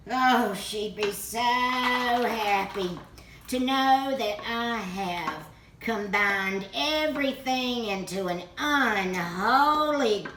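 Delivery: slow, loud, drawn-out relish; mock delight. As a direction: savour each word with mock triumph. Mock delight at horrid casserole.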